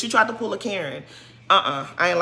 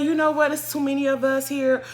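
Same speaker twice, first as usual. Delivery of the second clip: breezy brush-off; 3 semitones higher than usual. Shown as a demonstration. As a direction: show how she should have laughed it off. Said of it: "Why you couldn't just say".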